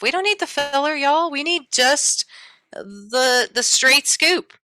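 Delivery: y'all, cut the filler; emphatic. Real, not acted. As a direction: drive the point home with gusto. Emphatic teacher aside.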